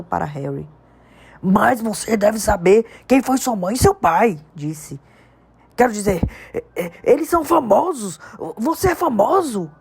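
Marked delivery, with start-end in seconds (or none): 1.4-9.7 big, emphatic giant's voice, building; giant Hagrid. A narrator's reading. Hagrid telling Harry about his world, emphatic. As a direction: Hagrid explaining, more worked up each phrase.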